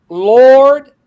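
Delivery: high, loud, drawn-out cry for help; yelled plea. Acted. Sinking Peter cries out to Jesus, yelling. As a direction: yell it out, stretching the word. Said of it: "He yelled".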